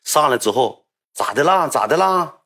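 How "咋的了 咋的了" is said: cheerful attendant. Retold or imitated. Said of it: "还挺乐呵".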